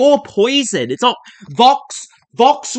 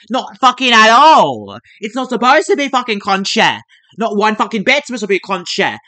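emphatic, raised mock outrage; heated, comically indignant correction; indignant rant; 3 dB louder than usual. Real, not acted. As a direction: rant it out, hammering the denial. Rants against crunchy rice.

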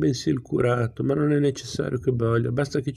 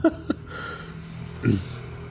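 soft breathy laugh; 4 semitones lower, 6 dB quieter than usual. Real, not acted. Reader laughs at own slip.

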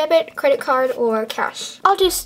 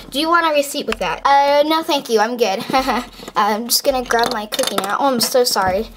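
ordinary talk

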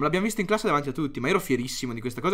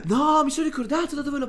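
laughing exclaim; 14 semitones higher, 10 dB louder than usual. Real, not acted. Still laughing, high and loud.

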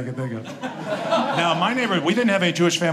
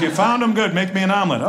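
higher, louder gruff dad; imitating father; 4 semitones higher, 4 dB louder than usual. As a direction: bark the order like his pops. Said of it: "he goes".

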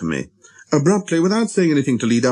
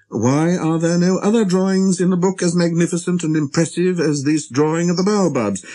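higher-pitched, curious question; imagined reader's question; 7 semitones higher than usual. A narrator's reading. Reader asking the author about the drawings, curious. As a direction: put it as a curious reader would.

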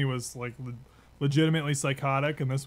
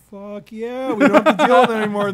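fast, much higher and louder celebration; cheering recruits; 8 semitones higher, 12 dB louder than usual. Retold or imitated. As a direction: whoop it like the whole bay is celebrating. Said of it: "And we're all like".

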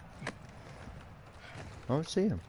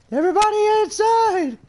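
high urgent shout to the squad; 4 dB louder than usual. Real, not acted. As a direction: yell it out, commanding. Calling squad inside, urgent.

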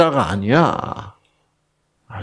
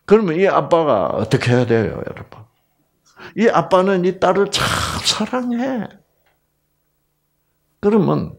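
ordinary delivery

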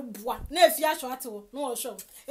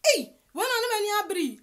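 laughing; 6 semitones higher, 3 dB louder than usual. Real, not acted. Laughing at the rival.

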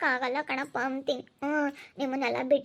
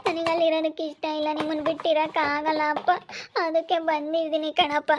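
tearful pleading; 3 semitones higher than usual. Acted. Daughter begs father's forgiveness.

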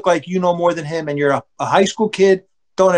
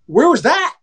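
higher-pitched indignant challenge; retold yell at umpire; 7 semitones higher, 3 dB louder than usual. Young pitcher protests the umpire's call, imitated yell. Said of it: "he yelled at the ump like this".

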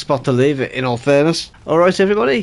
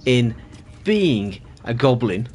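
mock teacher; 3 semitones lower than usual. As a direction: address the class like a pompous teacher. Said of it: "teaching a class".

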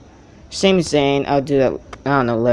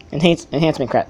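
tongue-tied stumble. Real, not acted. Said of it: "I can't even talk".

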